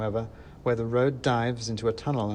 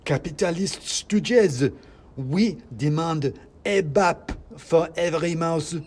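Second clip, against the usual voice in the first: high, loud, slow squeaky demands; a tiny firebrand shouting slogans; worked-up ranting mouse; 6 semitones higher, 5 dB louder, slower than usual. Acted. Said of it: "getting himself worked up".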